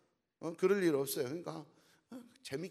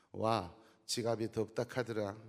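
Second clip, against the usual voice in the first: Gyeongsang husband; 3 semitones lower than usual. Retold or imitated. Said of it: "경상도 남편".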